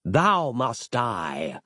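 very slow, drawn-out menacing villain; villain's death sentence; sinister decree. A narrator's reading. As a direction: drag each word like a curse. Dark master's doom decree.

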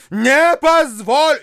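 high, loud, slow refusal. A narrator's reading. Widow refusing to let the bride go, loud and high. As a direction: hammer the refusal home. Repeated, louder.

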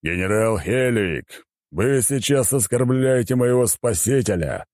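restrained, stern reprimand, no shouting; thundering rebuke. A narrator's reading. Ruler rebukes general for insulting his saviour, sternly. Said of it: "прогремел конунг".

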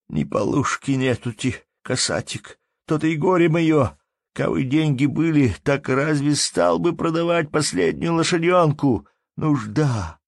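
high, loud grieving wail; a penniless peasant bewailing his lot; woeful lament. Acted. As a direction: lament your need. Anton lamenting his poverty.

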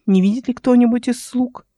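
plain reading voice

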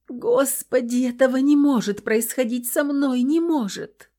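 high, pleading disbelief; despairing cry. A narrator's reading. Terrified captive girl crying to God, despairing. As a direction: cry out that this cannot be real.

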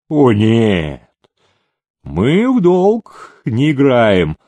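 slow, firm, unbending; stern refusal. A narrator's reading. Captain sternly refuses to play on credit. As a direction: refuse the debt coldly and slowly. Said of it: "строго сказал ротмистр".

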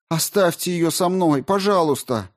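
high, pleading please; begging them to leave the baby, voice lifted; desperate begging. A narrator's reading. Mother begging to keep baby. (мать умоляет оставить ребёнка, высоко и жалобно)

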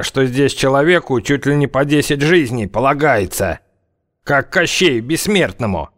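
very slow sarcastic scoff; mock the threat; mock fear. Zyablik mocking fear.

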